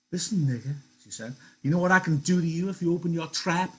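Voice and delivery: high, loud threatening sneer; wife threatening Crooks in his room; menacing wife. Acted. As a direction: threaten him, spitting the words.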